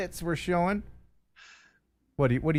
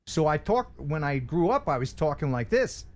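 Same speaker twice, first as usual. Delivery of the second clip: put-on a touch of old Philadelphia accent; lightly put-on Philly talk. Shown as a demonstration. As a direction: slip back into a Philadelphia accent. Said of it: "I had a Philadelphia accent".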